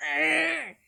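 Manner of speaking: loud frustrated "urgh"; angry growl. Acted. Vlogger acting out an angry commenter, loud frustrated groan. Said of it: "he keeps getting angry".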